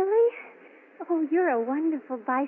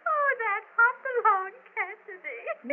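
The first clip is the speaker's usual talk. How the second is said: slow words still shaking with laughter; drawn-out amused line through giggles; laughing; 6 semitones higher, slower than usual. Acted. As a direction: say it giggling fondly. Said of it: "What are you laughing at?".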